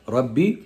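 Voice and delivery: "Rabbi" with a doubled b and a rising end; model for repeating. Shown as a demonstration. Mother leading her son through the dua, clear model. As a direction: say "Rabbi" clearly so the child can echo it. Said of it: "you're gonna repeat the dua after me".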